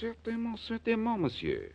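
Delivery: eager, high French "Certainement" with nasal French vowels; Jacques Pierre French accent. Acted. Fake Frenchman eagerly agreeing with the fence, French accent. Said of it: "I'm going to be Monsieur Jacques Pierre".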